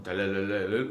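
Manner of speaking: low, rolling mimicked ringtone; spoken ringtone imitation; imitated phone ring. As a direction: trill a phone ringing, low and monotone. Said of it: "갑자기 전화가 오는 거야".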